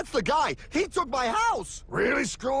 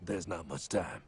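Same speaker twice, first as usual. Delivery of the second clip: much lower, cool gravel-free mentor voice; deep mysterious stranger; 10 semitones lower than usual. Acted. Time traveller greets old classmate, low cool mentor voice. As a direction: play the cool mysterious guide. Mysterious guide character appears.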